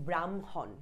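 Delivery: ব্রাহ্মণ split as bram-hon; bram, then hon, for ব্রাহ্মণ; demonstrated pronunciation. Shown as a demonstration. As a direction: sound out ব্রাহ্মণ in two parts. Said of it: "এরকম আমরা বলি".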